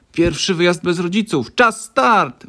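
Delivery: put-on high, loud, thrilled kid's cry; excited shout. A narrator's reading. Boy shouting to friends on the bus, high and excited. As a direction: shout it out with joy at leaving. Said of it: "wykrzyknął Tymek".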